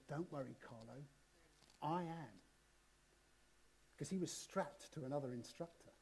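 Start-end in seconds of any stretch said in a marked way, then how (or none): 0.1-2.4 softer, calm reassurance close to the ear; little voice. Retold or imitated. Instructor strapped behind calmly reassuring Carlo, soft. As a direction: murmur it right into his ear. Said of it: "a little voice in his ear said".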